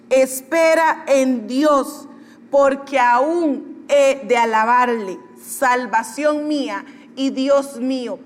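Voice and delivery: slow scripture reading. Acted. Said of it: "en forma de pregunta".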